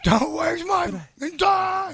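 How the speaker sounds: screaming high wrestler rant; Ultimate Warrior shout. Retold or imitated. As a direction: yell it like a crazed wrestler. Ultimate Warrior workout impression.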